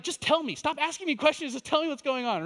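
high, pressing, impatient plea; anxious pleading. Retold or imitated. A husband pleading with his wife on the phone, high anxious impatience. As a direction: beg her to just say it, voice up high. Inner panic at wife's questions.

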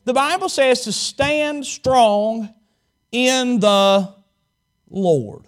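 slow, weighty line stressing Lord; slow emphasis. Shown as a demonstration. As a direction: lay it down slowly, leaning on Lord. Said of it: "Capital L, little o".

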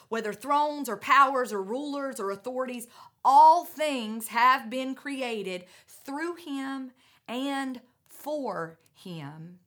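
loud, swelling, slowing on all things; preaching at full force. Real, not acted. Preacher proclaiming to the congregation, loud and slow. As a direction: proclaim it to the whole room.

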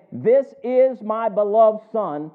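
slow, emphatic proclamation; lightly voiced divine announcement, each word weighted; voice from heaven. Preacher quotes God's voice from heaven, a slow proclamation. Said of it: "a voice from heaven saying".

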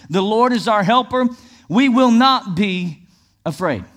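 high declaration slowing onto "not"; stress on NOT. Shown as a demonstration. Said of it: "emphasize the word".

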